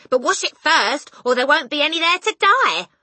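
high, loud insistent advice; loud warning. A narrator's reading. Mother to husband, loud warning. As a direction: add the warning forcefully.

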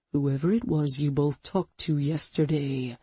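low mild growl; a hint of a growl, held back. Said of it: "Hunter growled".

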